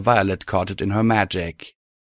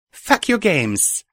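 snarl; 10 semitones higher, slower than usual. A narrator's reading. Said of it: "I snarled".

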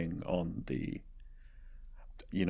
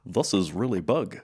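Kiwi accent saying this is really big; New Zealand accent. Shown as a demonstration. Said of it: "New Zealand".

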